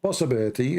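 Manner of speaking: slowing down into a pointed question; deliberately slow. Shown as a demonstration. Debater repeats his question for the opponent, slowly. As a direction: spell it out slowly, stretching the last words. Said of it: "I will say it slowly".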